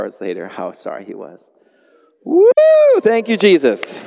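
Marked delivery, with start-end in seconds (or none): 2.2-4.0 louder, higher happy thanks; jubilant praise. Real, not acted. Preacher to congregation praising God, jubilant and loud. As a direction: celebrate the answered prayer.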